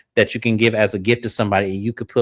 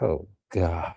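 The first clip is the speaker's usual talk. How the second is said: exasperated; 7 semitones lower, 9 dB quieter than usual. Retold or imitated. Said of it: "looking at her like".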